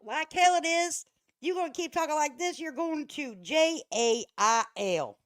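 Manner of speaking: sarcastic rebuttal to a streamer's video; mocking retort. Real, not acted. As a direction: scoff at her, drawing out each letter of jail. Mocking reaction to Betty's clip.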